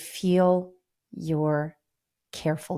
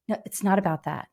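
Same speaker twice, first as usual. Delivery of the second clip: ordinary talk, nothing marked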